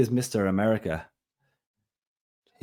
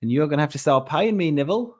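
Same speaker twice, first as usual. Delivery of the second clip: mock Aussie crime-figure voice, loud and stretched; Australian accent impression; 9 semitones higher, 5 dB louder than usual. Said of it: "what that accent is".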